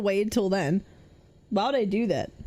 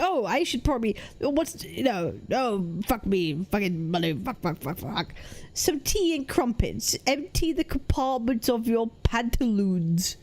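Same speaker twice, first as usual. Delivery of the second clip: hammed-up posh British toff; mock posh British, full of self-importance; pretentious posh accent. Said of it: "kind of pretentious or up their own arse".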